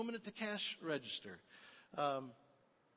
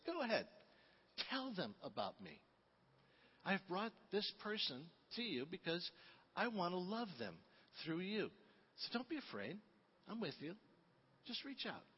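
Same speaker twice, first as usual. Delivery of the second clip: softer, hushed voice of Jesus, gently urging; gentle whisper; 6 dB quieter than usual. Retold or imitated. Jesus nudging you to share your faith, softly. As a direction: lean in and coax them softly. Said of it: "you hear a gentle whisper".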